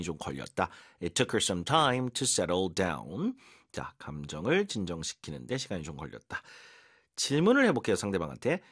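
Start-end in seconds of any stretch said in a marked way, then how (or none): 1.0-3.3 very slow, rising on time; slow model sentence. Shown as a demonstration. Teacher repeating the example slowly. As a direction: read it slowly, lift on time. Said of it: "이라고 하면".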